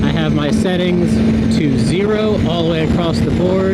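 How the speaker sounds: helmet mic on the highway, wind roaring; talking inside a helmet over wind noise. Real, not acted. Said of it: "I do have a lot of wind noise in my helmet".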